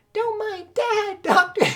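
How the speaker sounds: put-on high slow falsetto young woman. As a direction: play the sweet daughter, high. Betty falsetto voice again.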